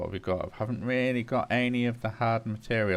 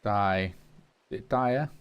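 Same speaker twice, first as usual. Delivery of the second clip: put-on German accent; slower than usual. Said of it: "in a German accent".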